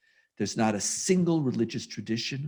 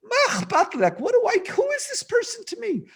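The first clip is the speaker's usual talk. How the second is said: much higher, exasperated disbelief; exasperated inner rant. Retold or imitated. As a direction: rant in your head, pitched way up. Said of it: "And then I'm saying, like".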